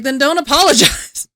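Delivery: exasperated retort. Retold or imitated. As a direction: fire it back at him, fed up. Retold argument with husband.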